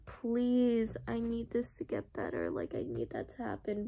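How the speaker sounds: a hushed, fading prayer for the story; soft pleading. Retold or imitated. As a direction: beg the book under your breath. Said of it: "And I'm just like".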